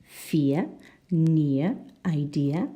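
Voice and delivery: "fear", "near", "idea" with a clear EAR glide; ear vowel. Shown as a demonstration. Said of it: "Can you hear the difference?".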